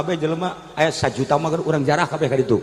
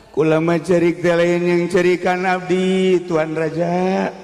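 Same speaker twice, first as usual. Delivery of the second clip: lamenting Bahlul; slower than usual. Acted. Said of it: "Hai, Bahlul".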